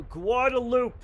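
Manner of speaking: Guadalupe said as gwar-da-loop; local pronunciation. Shown as a demonstration. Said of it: "you go".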